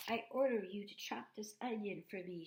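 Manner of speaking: put-on loud, high bossy girl; young girl. Daughter ordering the robot to chop, loud and bossy. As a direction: command it like a little princess. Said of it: "she said".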